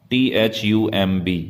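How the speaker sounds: ordinary talk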